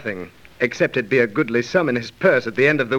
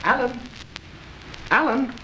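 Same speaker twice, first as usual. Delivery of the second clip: alarmed calling; 8 semitones higher, 6 dB quieter than usual. Acted. Edward finds Alan stabbed.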